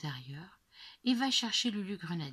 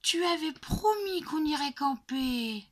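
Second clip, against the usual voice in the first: put-on a high, sulky child's complaint; grumpy child; 9 semitones higher, 6 dB louder than usual. A narrator's reading. Little girl grumbling at her dad about the camping trip, sulky. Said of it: "d'un ton grognon".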